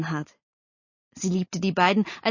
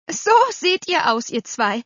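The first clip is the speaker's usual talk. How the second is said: scornful dismissal; 9 semitones higher, 5 dB louder than usual. A narrator's reading. Aunt scolds the dreaming children.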